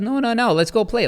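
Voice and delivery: put-on high-pitched toddler protest; insistent little child. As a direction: imitate a small child begging to play. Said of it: "like how children are".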